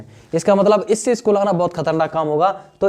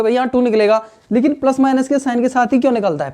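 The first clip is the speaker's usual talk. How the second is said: lightly voiced student, pitched higher; imitating a puzzled student; 6 semitones higher than usual. Student questions teacher about plus minus, lightly voiced and higher. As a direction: play the confused pupil asking teacher, a bit higher. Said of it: "कहोगे".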